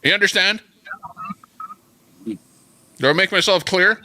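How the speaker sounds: hammed-up Russian accent, demanding he's understood; mock Putin warning. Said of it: "as if Putin was, uh, saying it".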